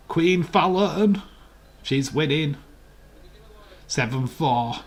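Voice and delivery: high, loud, slow name call; announcer-style cheer. Pretend. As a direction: hail the player with drawn-out words. Cheering the darts player.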